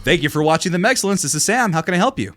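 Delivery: polite phone voice; customer service voice. Shown as a demonstration. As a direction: answer like a friendly call center agent. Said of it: "I'll do mine".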